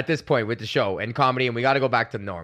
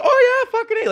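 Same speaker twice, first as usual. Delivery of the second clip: far higher, louder goofy buddy voice; hammed-up fake-chummy bro; 7 dB louder than usual. Braden schmoozing old cop, hammed-up chummy squeal. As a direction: overplay being friends with the cop. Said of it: "he's just".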